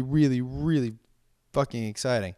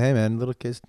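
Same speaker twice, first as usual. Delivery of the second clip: weaker copy; 4 dB louder than usual. Retold or imitated. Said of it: "Didn't have the same oomph when I said it".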